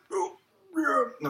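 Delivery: a touch of Jack Black; pressed squeezed yeah; Jack Black sound. Shown as a demonstration. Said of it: "the Jack Black sound".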